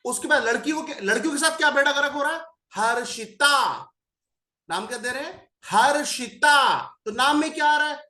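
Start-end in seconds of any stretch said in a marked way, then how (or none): 2.7-3.8 slow हर्षिता; sounding out हर्षिता. Shown as a demonstration. Teacher sounds out हर्षिता for parents. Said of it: "शिट आ रहा है". 5.7-6.8 slow हर्षिता; sounding out हर्षिता. Shown as a demonstration. Teacher sounds out हर्षिता for parents. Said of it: "शिट आ रहा है".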